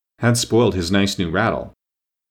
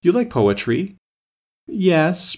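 eager question; 8 semitones higher, slower than usual. A narrator's reading. Twin and Alice exchange.

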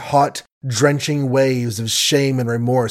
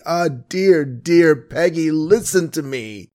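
brokenly; 4 semitones higher than usual. Acted. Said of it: "said he brokenly".

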